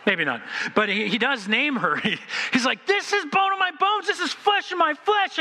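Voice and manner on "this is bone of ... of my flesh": much higher, singing-out voice; rapturous poetry. Retold or imitated. Adam seeing his bride, rapturous and much higher. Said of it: "he breaks out as every good male does in poetry and song".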